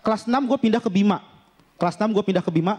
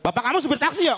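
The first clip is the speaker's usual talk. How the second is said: slightly raised, pushy pickup line; mock high-toned flirting; 3 semitones higher than usual. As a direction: flirt as if picking a fight. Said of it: "Ngegombal aja tuh nadanya tinggi banget".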